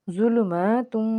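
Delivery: ظلماتم drawn out, syllables held long; slow joined reading. Shown as a demonstration. Teacher blending the spelled syllables for students, slowly. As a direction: stretch ظلماتم slowly in one breath. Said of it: "تجوید سے دیکھتے ہیں".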